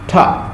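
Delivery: "ٹھا" as a single aspirated T syllable; teacher sounding out "ٹھا"; T sound demo. Shown as a demonstration. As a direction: isolate the sound "ٹھا" with a puff of air. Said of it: "ٹا sound".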